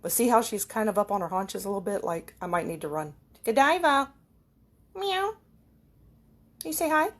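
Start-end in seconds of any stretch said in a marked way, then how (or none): 3.4-4.1 calls Godiva by name, louder and higher; calling the cat. Real, not acted. Calling her cat Godiva across the kitchen, raised voice. 5.0-5.3 high little meow; cat meow. Retold or imitated. Meowing to greet her cat, high mock meow.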